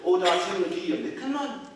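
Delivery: retold shout. A narrator's reading. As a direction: grandfather re-enacting his shout, restrained. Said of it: "So I shouted back to it".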